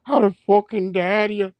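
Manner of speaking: a light mock Scottish brogue, Braveheart style; hammed-up Highlander rant in a Scottish lilt; Scottish accent. Clansman scolding the chief Alaric, in a mild Scottish accent. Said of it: "That Scottish gotta come out".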